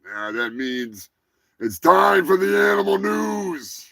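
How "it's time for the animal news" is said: big shouted show announcement; hyped segment intro. Pretend. Podcast host launching his news segment, shouted announcer intro. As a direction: belt it out like a jingle.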